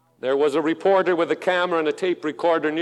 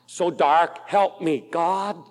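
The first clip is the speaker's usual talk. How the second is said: desperate plea; 4 semitones higher, slower than usual. Retold or imitated. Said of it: "Then these words".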